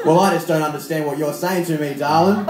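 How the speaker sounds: put-on Australian-accented lover's reply; Australian drama line. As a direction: answer as an Australian sweetheart. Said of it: "I want Australian accent".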